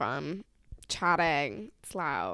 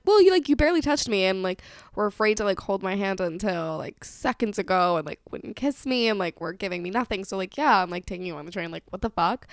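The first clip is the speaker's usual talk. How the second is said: exasperated rant; 4 dB louder than usual. Retold or imitated. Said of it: "I literally say to him".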